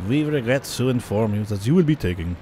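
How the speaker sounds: mock French accent; hammed-up French officer breaking bad news; a light put-on French accent. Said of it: "That's a French accent".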